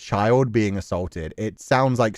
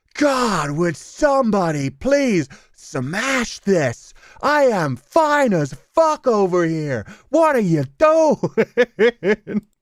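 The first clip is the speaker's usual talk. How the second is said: very high, drawn-out, demon-like animal shout; 9 semitones higher than usual. Dubbing an animal's mating call as a female: put-on female animal shouting out. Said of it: "a female shouting out".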